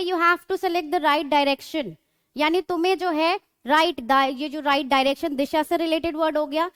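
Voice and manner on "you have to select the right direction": slow, carefully spaced English sentence; teacher reading an example sentence slowly. Shown as a demonstration. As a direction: read each word out slowly for the class. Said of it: "अगर किसने बोल दिया".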